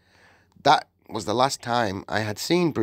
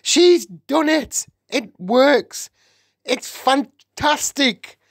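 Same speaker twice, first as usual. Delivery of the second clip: high, loud, exultant exclamations; yelled cheers; 5 dB louder, slower than usual. A narrator's reading. Witches praising their leader's success, yelling. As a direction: cheer each phrase as a separate cry. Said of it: "yelled the audience".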